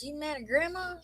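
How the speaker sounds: high, incredulous parent question, lightly acted; retold mom querying her little boy; questioning a child. Retells questioning her young son.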